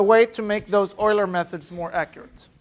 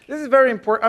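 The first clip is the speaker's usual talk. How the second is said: very punched higher and louder to insist; stress on very; 5 semitones higher, 6 dB louder, faster than usual. Real, not acted. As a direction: lean hard on very so they believe you. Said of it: "trust me when I say that this is important".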